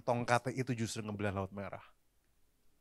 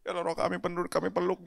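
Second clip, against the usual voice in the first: imitating friend's style; 6 semitones higher than usual. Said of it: "modelnya kayak gitu dia".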